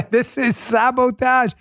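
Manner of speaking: put-on awful French accent. Host delivering the promised bit after laughing, awful French accent. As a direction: ham it up in a bad French accent. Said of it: "the awful French accent coming up".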